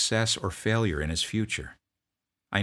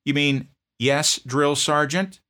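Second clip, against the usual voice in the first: loud, slow, higher bark; barked correction; 9 semitones higher, 7 dB louder, slower than usual. Retold or imitated. Drill sergeant correcting a sloppy answer, slow bark. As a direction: drill each word into him. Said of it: "I barked back at him".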